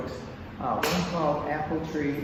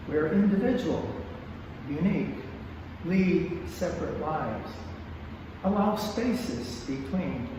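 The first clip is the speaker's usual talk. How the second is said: poem reading. Acted. Poet reading a dedication for families everywhere, measured recital. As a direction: read it line by line, letting each phrase stand alone.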